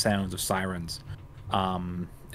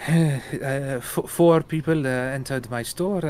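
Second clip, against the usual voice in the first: upset jeweler; 5 semitones higher, 4 dB louder, slower than usual. Acted. Jeweler speaks, voiced by GM.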